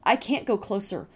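high, loud frightened pleading; panicked pleading. Acted. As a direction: beg in rising panic. Brother panicking near the flames.

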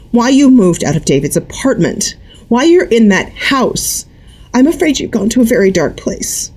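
thin airless tearful voice; tearful waver. A narrator's reading. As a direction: hold back tears, thin and airless. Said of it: "The last words were so thin and airless".

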